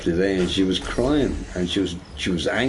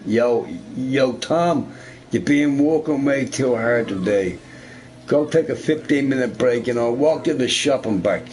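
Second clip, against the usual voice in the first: friendly boss; 4 semitones higher than usual. Pretend. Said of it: "what an employee needs".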